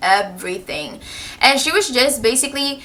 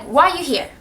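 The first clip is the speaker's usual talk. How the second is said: higher, mock Asian-accented teacher; imitated Asian accent; 4 semitones higher than usual. Rude teacher greeting her student, imitated Asian accent. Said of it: "tell you guys how she was acting".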